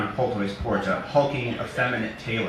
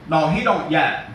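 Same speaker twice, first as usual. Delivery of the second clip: high, slow and loud simple giant; simple Eddie, slow; 6 semitones higher, 5 dB louder than usual. Acted. Eddie answering Raccoon about his dad, high and slow. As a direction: drag it out, earnest and dim.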